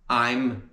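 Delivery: "I'm" with the whole "eye" diphthong; full I'm. Shown as a demonstration. Teacher shows the unreduced form, full "I'm". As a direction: sound out I'm fully. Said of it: "esse som de I'm".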